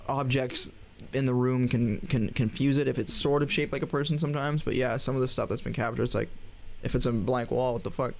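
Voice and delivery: talking while chewing gum; words round a wad of gum. Real, not acted. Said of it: "I'm gonna stop chewing gum".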